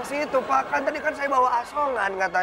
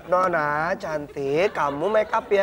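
coaxing; 4 semitones lower than usual. Acted. Voicing sweet talk to cat.

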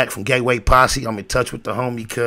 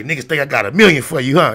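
raised-pitch teasing challenge to a friend; retold challenge; 4 semitones higher, 4 dB louder than usual. Telling how he challenged his homie, mock confrontational. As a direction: throw it at him as a challenge, voice up.

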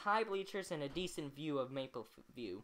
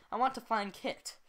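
plain reading voice

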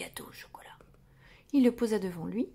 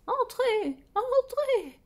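high, breathless call from inside; breathless doctor; 5 dB louder, much slower than usual. A narrator's reading. Plump doctor calling his patient in, high and breathless. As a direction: puff out the welcome like a plump doctor. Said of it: "dit la voix essoufflée du docteur Dodu".

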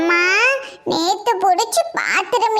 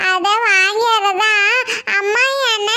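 put-on whiny child. Child complains about being kept home.

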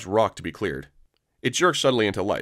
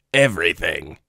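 submissive Weequay; 4 semitones lower, slower than usual. Acted.

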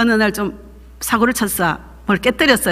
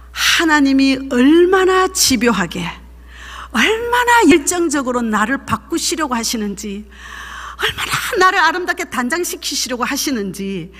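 tearful. Real, not acted. Moved testimony of God's love.

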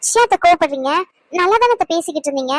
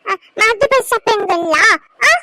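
put-on a lightly higher little boy asking gently; child voice; 4 semitones higher than usual. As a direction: play a small boy worried for grandma. Child Roshan voiced by adult.

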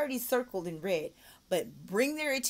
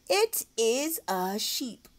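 slow model; 5 dB louder, much slower than usual. Shown as a demonstration. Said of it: "model sentence".

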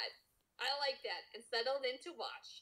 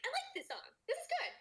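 laughing self-quote; 13 semitones higher than usual. Retold or imitated. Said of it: "I was like".

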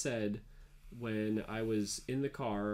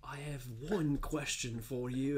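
mock whisper; 3 semitones higher than usual. Whispered reply in jest.

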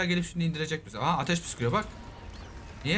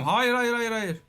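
alarmed no; 4 semitones higher, slower than usual. Real, not acted. Yelling at friend not to eat the dragon egg, alarmed. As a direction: stop him before he eats it.

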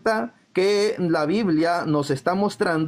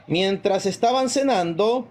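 slow reading; slower than usual. Shown as a demonstration. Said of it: "Voy a leer despacito".

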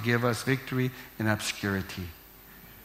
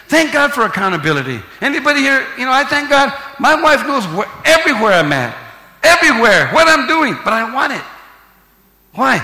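loud, rising preacher's cadence; preaching at full force; 5 semitones higher, 6 dB louder than usual. Real, not acted. Pastor exhorting his church, loud and fervent. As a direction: pound the words home to the congregation.

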